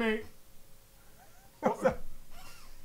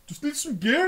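rough London slang; 6 semitones higher than usual. Retold or imitated. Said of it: "Always the excuse".

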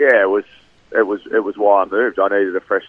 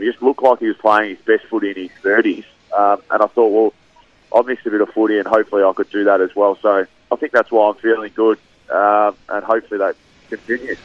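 nasal voice. Real, not acted. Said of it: "sorry if I sound a little bit, um, nasally".

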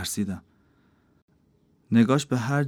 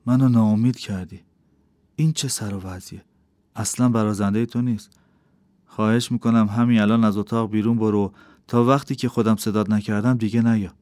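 firm, louder scolding from Shams; stern rebuke; 3 dB louder than usual. Acted. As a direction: send her out, firm and louder. Shams sends Kimia out sternly.

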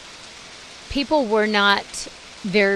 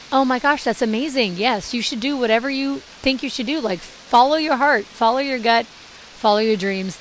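mock-enthusiastic cheerleading; lightly hammed-up encouragement; imitated gushing approval; 3 semitones higher than usual. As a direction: play the supportive friend, lifted and gushy. Mimicking enthusiasm they did not get.

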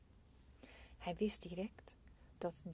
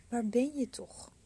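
loud, higher desperate call; crying out; 5 semitones higher, 9 dB louder than usual. A narrator's reading. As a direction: call out into the mountains. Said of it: "barstte ze in tranen uit en riep".

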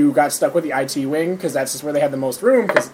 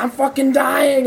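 mock dying groan; 10 semitones higher, slower than usual. Retold joking message.

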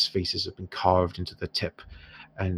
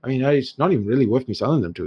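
put-on haggling dwarf merchant in an Irish accent; dwarf shopkeeper in an Irish accent haggling with the heroes; 6 semitones higher, 4 dB louder than usual. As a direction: bargain in a lilting Irish dwarf voice.

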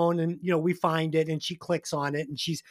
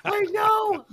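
laughing; 4 dB louder than usual. Real, not acted. Laughing reply to cohost.

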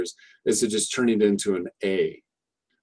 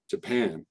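"Japan" with the "pan" stressed and the "ja" reduced to a light schwa; 4 dB quieter than usual. Shown as a demonstration. Teacher reminding students where the stress goes, "Japan" with the weight on "pan". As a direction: land the weight on "pan" in "Japan" and keep the "ja" small. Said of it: "put that stress on that".

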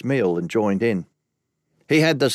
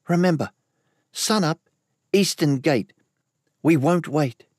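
higher, a hint of a wary woman; lightly voiced Ellis; 5 semitones higher than usual. A narrator's reading. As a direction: warn him, pitched up a little.

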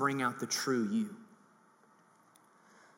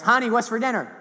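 raised call, higher and louder; husband shouting to his wife from the door; 7 semitones higher, 5 dB louder than usual. Retold or imitated.

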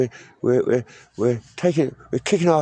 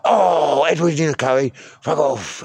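mock outburst; 3 semitones higher, 3 dB louder than usual. Caller rejecting the food offered on the line, mock outburst. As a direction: burst out on the first word, then settle.

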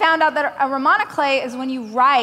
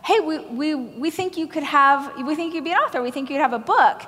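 a hint of a chirpy literary agent; agent's pitch; 3 semitones higher, much faster than usual. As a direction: play the excited agent offering a deal. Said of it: "the lit agent said".

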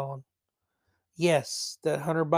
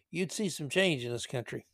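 whisper; 3 semitones lower, 7 dB quieter than usual. Real, not acted. Whispered aside on unborn.

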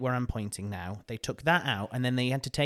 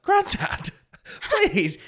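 pleading; 6 dB louder, much slower than usual. Retold or imitated. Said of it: "I was like".

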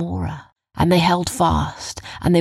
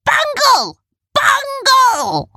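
very high, loud yell; shouted signal; 6 dB louder, much slower than usual. A narrator's reading. Another creature giving the group a signal, high shout. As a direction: call it out to the whole crowd. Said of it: "one of the other Rumpels shouted".

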